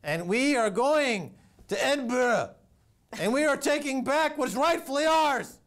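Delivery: mock king rallying his clan; roaring tyrant king. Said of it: "I am your king".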